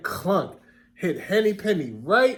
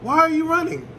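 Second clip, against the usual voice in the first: much higher goose voice; a fussy goose calling out; curious goose; 9 semitones higher, 5 dB louder, faster than usual. A narrator's reading. Goose at her nest asks the friends, high and curious.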